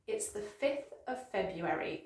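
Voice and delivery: measured, soft model sentence; careful pace. Shown as a demonstration. Teacher models a tricky date, careful unhurried pace. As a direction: say it carefully, word by word, for learners. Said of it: "The whole sentence quickly".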